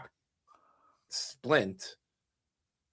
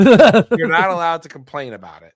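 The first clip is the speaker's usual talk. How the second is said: stern warning; 5 semitones higher, 14 dB louder than usual. Retold or imitated. Dad laying down the rules.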